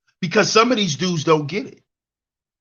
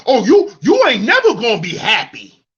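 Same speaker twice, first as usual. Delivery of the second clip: mocking bitter man; 5 dB louder than usual. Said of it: "It's feminine".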